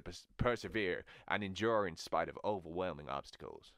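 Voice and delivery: measured Southern American voice; Southern American accent. Acted. Repeating the hero quote, Southern American accent. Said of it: "S-, Southern American".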